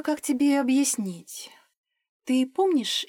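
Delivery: hushed. A narrator's reading. Liza confides a secret.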